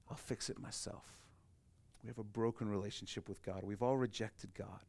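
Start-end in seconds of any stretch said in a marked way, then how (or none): 0.1-1.2 whispered, much softer repeat; an unvoiced echo of the boast; hushed echo. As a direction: let the words fall to a whisper. Repeats the proud claim, hushed.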